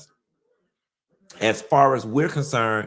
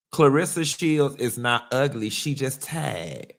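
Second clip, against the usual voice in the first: put-on Miami accent; 2 semitones higher than usual. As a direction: say it like a Miami girl. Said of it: "In my best Miami voice".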